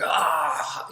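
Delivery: drawn-out mock "aah" of pain; imitated pain cry. Friend stabbed in the armpit, imitated pain cry. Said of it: "Mark's in pain, going".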